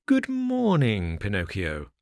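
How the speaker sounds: sly fox greeting. Acted. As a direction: draw out the greeting to charm him.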